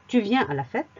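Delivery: Tu viens à la fête mit steigender Frage-Intonation am Ende; rising question tune. Shown as a demonstration. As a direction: let fête rise like a casual question. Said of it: "l'intonation montante qui montre qu'il s'agit d'une question".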